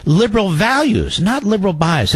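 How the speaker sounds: sneering echo of the quote; mocking repeat. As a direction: repeat the slogan with scorn. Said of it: "Is that what you see".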